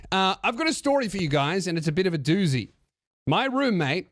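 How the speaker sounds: reading aloud as an English woman; put-on English accent, storytelling. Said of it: "English accent as a woman".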